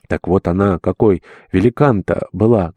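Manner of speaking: usual speaking voice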